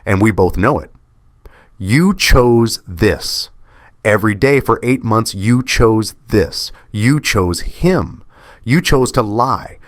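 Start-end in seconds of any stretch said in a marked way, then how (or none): 1.8-9.8 higher, slow, deliberate blame; cold accusation. Acted. Husband accusing his cheating wife, slow and cutting. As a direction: hammer each accusation slowly.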